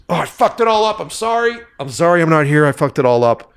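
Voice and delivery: high, strained, worn-out apology; imitating a wrecked, exhausted crew member. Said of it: "and he was exhausted".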